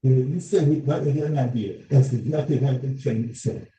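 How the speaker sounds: muffled voice, as if hand over mouth. Real, not acted. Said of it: "It's really muffled on my end".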